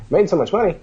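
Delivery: mock-stunned question; incredulous echo. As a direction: echo it back, can't believe it.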